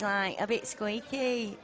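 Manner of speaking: slow, squeaky Leeds Yorkshire; Leeds accent. Shown as a demonstration. Commentator contrasting Yorkshire accents, squeaky Leeds accent. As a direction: demonstrate Leeds with a slightly squeaky voice. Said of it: "then you got Leeds".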